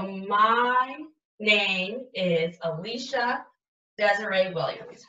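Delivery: each word drawn out slowly while writing; slow dictation. Shown as a demonstration. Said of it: "So when I start".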